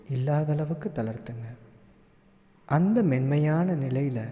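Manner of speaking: calm meditation guide with long pauses; guided meditation. Acted. Meditation teacher guiding listeners to relax and follow their breath, guided meditation. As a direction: lead them gently into relaxation, leaving room to breathe.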